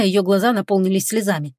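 ordinary delivery, nothing marked

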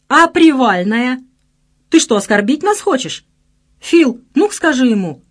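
loud, high demanding calls; indignant shouting. A narrator's reading. Friend demanding a homecoming party, shouting. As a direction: shout up as if insulted. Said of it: "выкрикнул Пчёла".

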